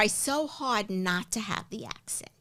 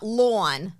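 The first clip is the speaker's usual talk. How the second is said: New York LAWN with rounded aw; New York accent; 3 semitones lower than usual. Shown as a demonstration. Offering a word to compare, New York accent. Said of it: "your New York accent".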